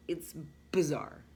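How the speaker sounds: slow whispered "It's bizarre"; hushed amazed aside. Real, not acted.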